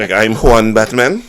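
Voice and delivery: put-on jokey Hispanic accent; mock Hispanic hero voice. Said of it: "Hispanic accent alone".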